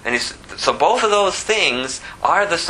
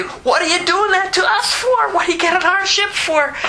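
high shouted accusation; furious sailors. Acted. Terrified crew shouts at Jonah over the ship, high yell. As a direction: yell it at him in panic.

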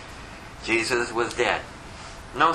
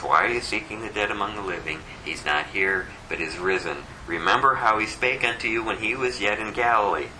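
angel speaking; 10 semitones lower than usual. Retold or imitated. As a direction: deliver it as the angel's proclamation. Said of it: "And he says".

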